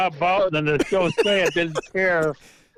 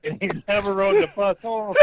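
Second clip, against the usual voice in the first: emotional outburst; 3 semitones higher than usual. Real, not acted. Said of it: "what sound is that?".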